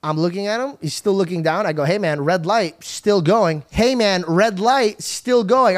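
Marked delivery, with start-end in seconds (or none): 3.7-5.8 urgent warning. Retold or imitated. Second, more urgent warning to driver.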